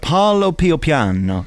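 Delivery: "parlo più piano" drawn out slowly; English speaker having a slow go at "parlo più piano"; careful, anglicised "parlo più piano"; amateur Italian pronunciation. Shown as a demonstration. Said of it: "My pronunciation, as you know, Russell, isn't up to much".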